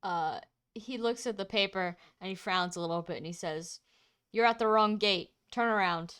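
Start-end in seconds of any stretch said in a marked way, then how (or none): 4.3-6.1 lightly voiced bored DMV clerk; flat, bored clerk reading it off. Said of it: "in a D M V voice".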